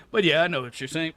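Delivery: fast whispered aside; whispering. Real, not acted. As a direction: whisper it quickly under your breath.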